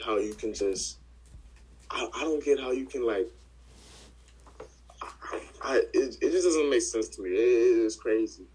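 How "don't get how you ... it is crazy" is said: loud frustrated outburst; angry. Real, not acted. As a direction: vent it loud and fed up. Venting anger about police killing.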